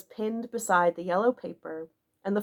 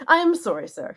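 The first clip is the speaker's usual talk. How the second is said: higher, louder stiff curt apology; resentful Barker answers curtly; short and stiff; 6 semitones higher, 5 dB louder than usual. A narrator's reading. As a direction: clip it off with wounded dignity. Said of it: "shortly but stiffly".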